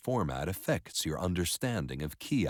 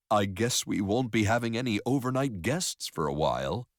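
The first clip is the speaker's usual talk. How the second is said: lightly acted husband line, higher pitched; lightly voiced husband; 5 semitones higher than usual. Husband to wife about the crowded guest room, lightly acted.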